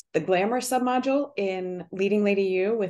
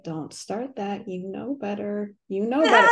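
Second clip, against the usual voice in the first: stern self-talk. Retold or imitated. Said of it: "as I'm hearing this voice in my brain, I'm like".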